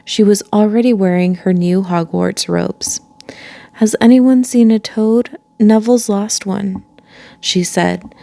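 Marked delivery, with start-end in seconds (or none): 3.7-6.8 put-on bossy girl. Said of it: "She had a bossy sort of voice".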